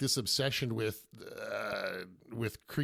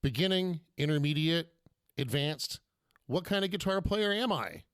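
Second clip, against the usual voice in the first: Superman villain voice. Acted. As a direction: announce it like a comic book villain. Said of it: "how I had us in Superman villain voice".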